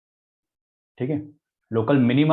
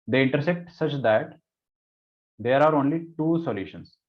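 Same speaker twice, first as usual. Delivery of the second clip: slow dictation; 2 semitones higher, much slower than usual. Shown as a demonstration. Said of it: "क्या बोला है question में?".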